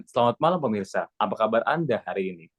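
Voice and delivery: quick flat question read; rushed non-question greeting; not asking. Shown as a demonstration. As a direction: rattle off the question. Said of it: "Itu bukan nanya".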